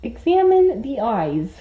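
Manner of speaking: a light, put-on Australian accent, slowing on "examine the eyes"; mock Australian accent. Owner jokingly narrating the exam in a put-on Australian accent. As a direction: play the Aussie vet for a laugh. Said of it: "explain to him what you're doing to him in Australian".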